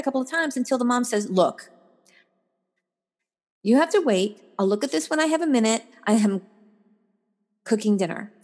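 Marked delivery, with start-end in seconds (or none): 1.3-8.3 mildly stern mother, measured pauses; lightly acted mom putting a child off; firm mom tone. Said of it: "she said it in that tone".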